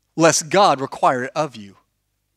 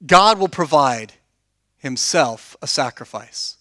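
slow solemn quote; 4 semitones lower than usual. Retold or imitated. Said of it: "He says".

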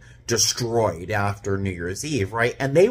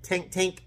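light, crisp "tink, tink"; imitated plate clink; 8 semitones higher, 6 dB quieter than usual. Flight attendant showing how hard breakfast was, imitated clinking. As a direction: mimic hard food tapping a plate. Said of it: "It was hard".

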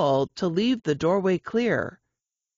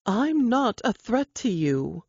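calm soothing; 5 semitones higher than usual. Acted. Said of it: "Her calm, soothing voice continued".

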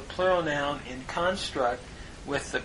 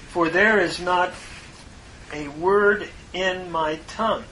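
verse read raised and louder, measured; scripture reading; 3 semitones higher, 4 dB louder than usual. Acted. Teacher reads the translated verse to students, solemn and raised.

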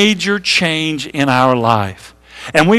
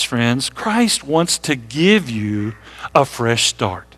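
tender; 4 semitones lower, 4 dB quieter, slower than usual. Real, not acted. Tender appeal to hurting listeners.

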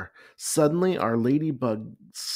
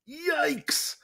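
put-on high, loud alarmed yelp of a boy; panicked shout; 4 dB louder, much slower than usual. A narrator's reading. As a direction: shout the warning as the bees dive in. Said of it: "shouted Arnold".

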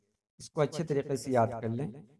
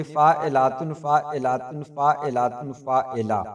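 scansion demo; 3 dB louder than usual. Shown as a demonstration. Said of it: "यहीं तक रह गया".

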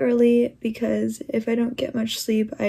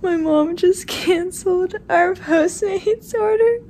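laughing; 7 semitones higher than usual. Real, not acted. Laughing at mom's mistake.

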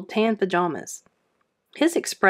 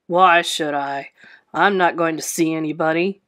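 growled; 5 semitones lower than usual. A narrator's reading. Sour husband growling back at his wife. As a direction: growl it like a sour old man. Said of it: "Bert Brisbane growled".

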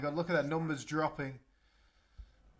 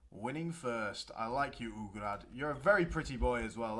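tag-along praise; 6 semitones lower than usual. Pretend. Cooing praise at Ugrad.

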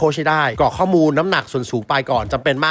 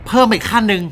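laughing; 7 semitones higher, 5 dB louder than usual. Real, not acted. Host explaining slogan, amused.

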